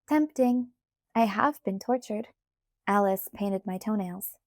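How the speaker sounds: mildly teasing; light teasing. Acted. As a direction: brush it off playfully. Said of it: "in a light and teasing voice".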